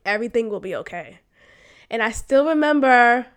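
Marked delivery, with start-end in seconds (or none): 0.1-1.2 calm reassurance. Retold or imitated. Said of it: "the way that she said it, her voice".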